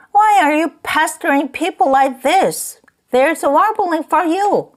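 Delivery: high warbling mock of the lady. Drunk man mocking the lady who shouted at him, high warble. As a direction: mimic her shrill warble for laughs. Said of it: "cried with a laugh ... imitation of a warble".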